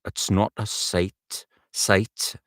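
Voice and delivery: slow, careful Geordie practice; deliberate Newcastle rehearsal; Newcastle accent. Shown as a demonstration. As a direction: work the vowel in a Geordie accent. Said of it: "That's right".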